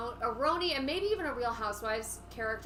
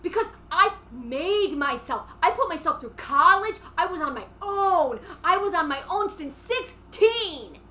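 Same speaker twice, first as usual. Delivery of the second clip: acted tearful defiance; 3 semitones higher, 6 dB louder than usual. Acted quarrel, tearful defence.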